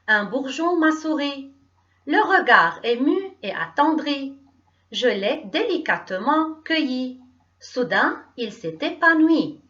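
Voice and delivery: measured, carefully phrased poetry reading; poem recitation. Acted. Teacher reads a friendship poem to pupils, measured recitation. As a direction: recite with a pause after each verse.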